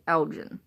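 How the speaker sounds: ELGIN with g as in gem; soft-g ELGIN. Shown as a demonstration. Woman naming the town spelled the same, ELGIN with a j sound. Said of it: "it's pronounced differently".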